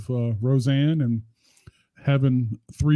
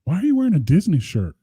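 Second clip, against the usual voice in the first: slightly higher, puzzled question; quoted questioner; 4 semitones higher than usual. Retold or imitated. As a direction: retell it with a swooping, higher question. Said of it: "and Keaton goes".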